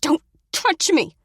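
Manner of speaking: high, loud and slow scream; panicked shout. Acted. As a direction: scream him off you. She shoves him after choking.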